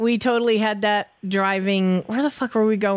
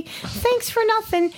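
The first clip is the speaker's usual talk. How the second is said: sarcastic; 11 semitones higher than usual. Real, not acted. Sarcastic jab at AT&T.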